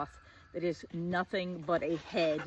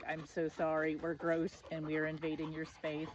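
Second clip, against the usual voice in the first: sheepish apology; 4 semitones lower, 7 dB quieter than usual. Retold or imitated. Acts out sheepish apology to the ladies.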